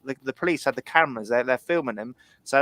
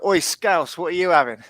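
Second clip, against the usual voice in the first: louder, higher call across a bar; shouting over; 4 semitones higher, 5 dB louder than usual. Retold or imitated. Retelling a mate ordering drinks at the bar, shouting over. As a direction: bellow it over to your mate. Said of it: "he shouts back over".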